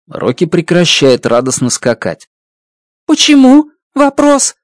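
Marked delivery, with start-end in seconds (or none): 3.1-4.5 high, louder, sudden alien why; Rocky asking why his friend won't go home; alarmed alien question. Acted. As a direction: alien friend hit by bad news. Rocky shocked.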